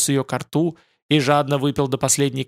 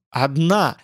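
terrible shout. A narrator's reading. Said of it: "Азазель крикнул страшным голосом".

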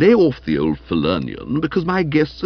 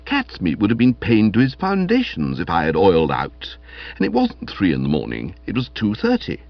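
coolly dignified self-defence; understated lofty reproof; cold; 2 semitones lower than usual. Acted. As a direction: answer an accuser with haughty restraint. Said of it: "I said coldly".

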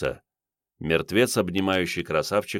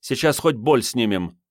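louder, higher commanding woman; shouting orders; 7 semitones higher, 4 dB louder than usual. A narrator's reading. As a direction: yell orders at the major.

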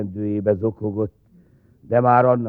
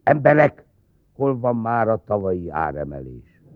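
calling out. Acted. Official hushing the grumbling crowd, calling out. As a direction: call the grumbling folks to order.

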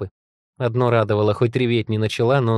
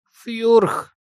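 very high, falling yelp; guilty creature squeak; 12 semitones higher, 3 dB louder than usual. A narrator's reading. Two monsters answering angry mistress, guilty squeak. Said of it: "виновато выдохнули оба монстра".

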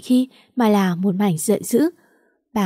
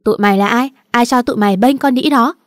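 loud, angry cursing that grows louder; straining to curse; 3 semitones higher, 5 dB louder, faster than usual. Acted. Tâm screaming at the men protecting Tiểu Nam, loud curse. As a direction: yell at the strangers, neck straining. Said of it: "gân cổ lên chửi".

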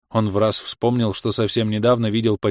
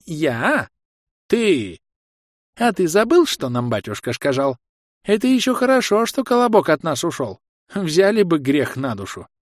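put-on high, scolding old granny, pitch jumping up; an old woman rounding on her husband; granny scolding the old man; indignant old granny; 7 semitones higher than usual.

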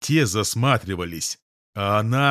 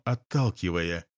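ordinary delivery, nothing marked

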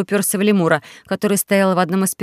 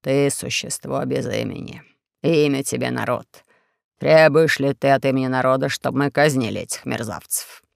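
Four-Eyes; 6 semitones lower than usual. Acted. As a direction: drone the accusations like a sly dictator. Four-Eyes questions lemur.

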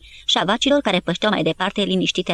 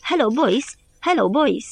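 a hint of a wounded man chanting by rote; mild singsong repetition, like a parrot; parrot-like repeating; 4 semitones higher, slower than usual. A narrator's reading. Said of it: "îi ținea isonul soldatul rănit". (repetă ușor mecanic, ca un papagal)

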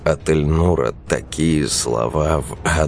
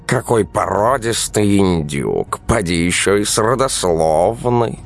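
mock-admiring cat voice, a little higher; 5 semitones higher than usual. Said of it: "восхитился кот". (восхищённый кот)

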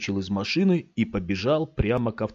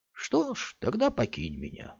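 bitter; 5 semitones higher, 5 dB quieter than usual. Acted. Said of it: "сказал он с горечью в голосе".

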